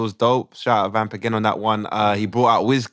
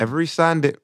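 put-on Ugandan accent; 4 semitones higher than usual. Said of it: "we do it in a Ugandan accent".

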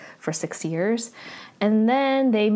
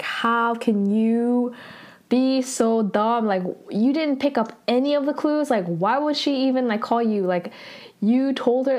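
imitated exasperated griping, a bit raised; complaining; 3 semitones higher than usual. Complaining to a housemate who missed the clues, mildly exasperated. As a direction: scold in mock disbelief, stretching the first words. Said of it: "complaining to Junhee".

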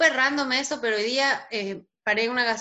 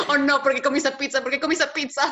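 laughing; 3 dB louder than usual. Retold or imitated. Retold pizza panic, laughing.

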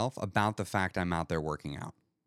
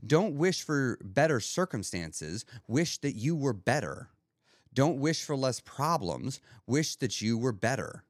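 slow emphatic quote; slower than usual. Retold or imitated. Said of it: "a better way to say it by Jim Rohn".

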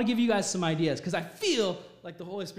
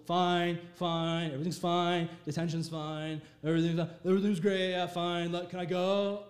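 mock monotone teenage brush-off; dismissive teen. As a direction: answer only to escape the dinner table. Himself at fifteen, brushing off parents.

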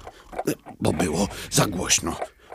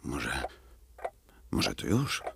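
low, hushed whisper-soft murmur; quiet at night; 7 semitones lower, 9 dB quieter than usual. Acted. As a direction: keep it down, everyone sleeps. Alarm clock hushing at night. (cicho, nocą, szeptem)

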